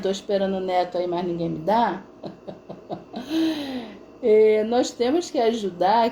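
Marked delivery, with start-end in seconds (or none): 2.2-3.9 real chuckle at own joke; soft, amused laughter. Real, not acted. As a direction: let out a quiet run of chuckles. Laughs at her grandchild joke.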